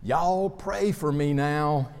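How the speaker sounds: put-on slow, lightly Southern drawl of a child; a hint of a Southern child asking sweetly; Southern accent. Pastor imitating the boy's Southern accent. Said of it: "in his charming Southern accent".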